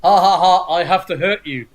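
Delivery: lightly voiced goon with a mock cackle; dumb thug. Podcaster mimicking a comic goon, mock thug cackle. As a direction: ham up a generic stupid henchman. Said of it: "kind of thug".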